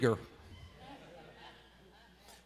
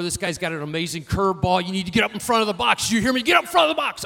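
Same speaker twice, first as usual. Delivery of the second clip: firm coaching voice rising in pitch and force; urgent dad pushing his son forward; dad coaching from the dugout; faster than usual. Retold or imitated. Dad urging his son at the plate, rising and insistent. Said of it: "my dad calls me over".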